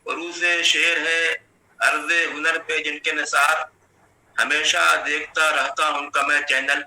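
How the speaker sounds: measured mushaira recital with drawn-out line endings; Urdu poetry recitation. Acted. Poet reciting verse in praise of an Urdu academy, declaimed poetry recitation. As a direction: recite each half-line in a steady cadence.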